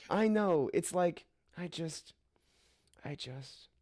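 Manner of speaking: high, mock-tearful half-sob; hammed-up holding back tears; trying not to cry. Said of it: "trying not to cry".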